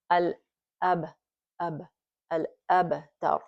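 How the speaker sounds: al-abtar slowly, with a small bounce on the b; light qalqala. Shown as a demonstration. Teacher drilling the bounce on ba. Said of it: "that little bouncing".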